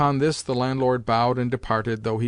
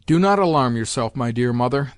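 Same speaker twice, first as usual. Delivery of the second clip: a touch of condescension, louder at the start; lofty air; 4 dB louder than usual. Acted. General brushing off his mother, mildly lofty. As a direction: talk down to her with mild loftiness. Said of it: "with a lofty air".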